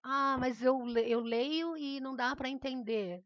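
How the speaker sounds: lightly acted student protest; student's objection. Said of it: "Não tem problema".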